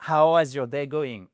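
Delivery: 'is' turned into 'has' in 'how is your day going'; botched 'how is', said as 'how has'; wrong auxiliary. Shown as a demonstration. Teacher showing students a horrible mistake, wrong 'has' sound on 'is'. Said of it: "Alors, c'est horrible".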